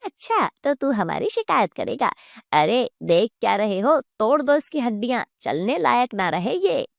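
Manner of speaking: landlord's threat with wide pitch swings; menacing landlord. Acted. Landlord ordering his men to beat Gopal, menacing. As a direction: order the thugs in, lightly voiced landlord.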